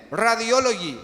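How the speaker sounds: imitating Radiology said Spanish-style as "ra-dio-LO-gee"; mock the staff's Spanish Radiology; imitating a Spanish accent on Radiology; mispronounced radiology. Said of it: "Es lo que me dicen".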